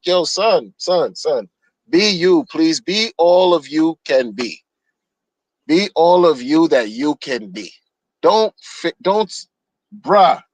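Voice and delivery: imitating his switched-up voice. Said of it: "You could hear it in the voice".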